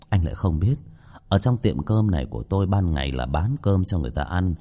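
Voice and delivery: lightly voiced, unhurried explainer; composed shop owner. Owner explaining his ghost waitress to captain, composed voice.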